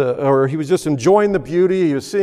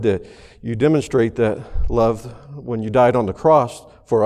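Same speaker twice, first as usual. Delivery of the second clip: prayer; 3 semitones lower than usual. Acted. Pastor praying before the sermon in a humble prayer voice. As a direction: speak humbly to God.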